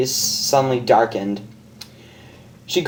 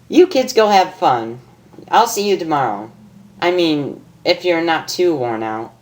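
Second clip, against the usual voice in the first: higher, playful teasing voice; Pinkie teasing; 4 semitones higher than usual. Acted. Pinkie teasing the couple, higher playful voice. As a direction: wink at the lovers.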